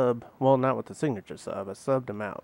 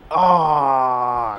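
yelling from the sidelines; 10 dB louder than usual. Real, not acted. Frustrated at the ref.

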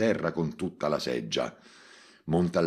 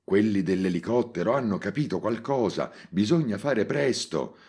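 agitated; 5 semitones higher than usual. Acted. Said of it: "disse concitato Mimì".

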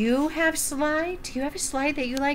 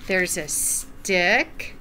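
slow, lilting picture-book read-aloud; gentle storytime narration; reading to children; 3 semitones lower, slower than usual. Acted. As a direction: read it like storytime for little ones.

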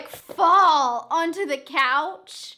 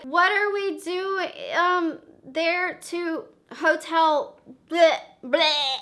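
mock slurring, words trailing into bleh; slurred nonsense; 2 semitones higher, slower than usual. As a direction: play it drugged and jumbled. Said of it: "Why are you talking like that?".

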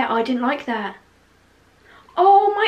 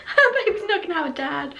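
high-pitched, laughing mock repeat; amused, giggly imitation of an outburst; laughing echo; 5 semitones higher than usual. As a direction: repeat your own outburst through laughter. Laughing, echoing her own recorded outburst.

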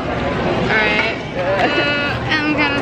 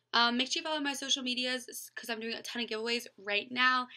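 quiet outro; 2 semitones lower, 12 dB quieter than usual. Real, not acted. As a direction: keep it hushed, late-night editing. Quiet outro recorded while editing.

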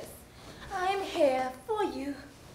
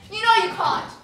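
loud insistence; 2 semitones higher, 10 dB louder than usual. Acted. Wife insists loudly.

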